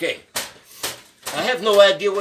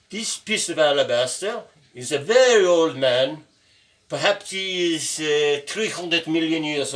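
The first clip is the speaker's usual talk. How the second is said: slower and more deliberate, with a pause first; slowing down. Shown as a demonstration. Slowing down after a student says he talks too fast. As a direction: take it slower so students can follow. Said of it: "Okay, I slow down".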